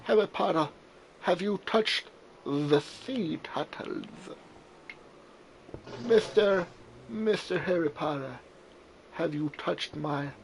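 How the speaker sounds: mock offended sing-song; playful mock scolding. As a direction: scold the character like a pet owner, half joking. Playful voice to game character.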